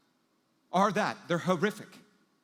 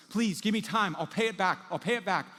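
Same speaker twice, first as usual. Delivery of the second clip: higher, louder acted plea; frantic pleading; 5 semitones higher, 4 dB louder than usual. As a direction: beg for time, repeating urgently. Debtor pleads with angry creditor.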